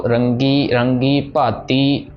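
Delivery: slow, drawn-out devotional recitation of scripture. Shown as a demonstration. Teacher reciting the verse slowly for students. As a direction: recite each syllable slowly and reverently.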